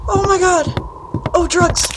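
high loud relieved gasp; squealing relief after the scare; shrill relief. Real, not acted. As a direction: let the fear burst out.

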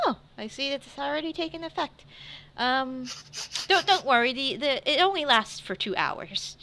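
a hint of a waitress soothing a customer; lightly voiced waitress. Waitress looks at Tegan taking effect, lightly voiced reassurance. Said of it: "waitress comes back".

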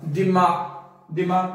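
"दिमाग" as di-MAA, no final g; slow "दिमाग", open long aa; lengthened vowel. Shown as a demonstration. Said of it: "लंबा करना है थोड़ा सा".

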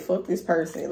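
high and fed up, cutting them off; fed-up outburst. Retold or imitated. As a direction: snap out of it, done with them. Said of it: "woke up one day and like".

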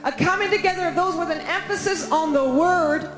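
prophetic reading aloud. Real, not acted. Preacher reading a prophetic word to the congregation, proclaiming. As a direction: read it out as a building announcement.

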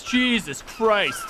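normal talking voice

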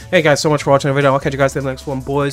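fast, casual sign-off read; quick YouTube outro. Acted. Host rushes his outro to the viewers, fast and casual.

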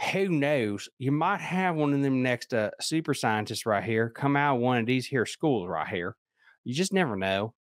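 lightly put-on West Virginia accent; hint of a rural West Virginia accent. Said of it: "let me do this in my West Virginia voice".

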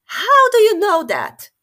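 high, loud sudden question; the king taken aback; startled question. Acted. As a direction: blurt it out in surprise.

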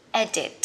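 edit stressed on the first syllable, ED-it; careful English pronunciation. Shown as a demonstration. Teacher modelling edit for learners, clear and even. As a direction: model edit with a light final t. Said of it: "Chỉnh sửa của mình sẽ là edit".

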